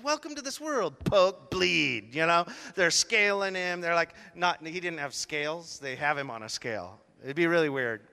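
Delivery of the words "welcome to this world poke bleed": nurses mimicked.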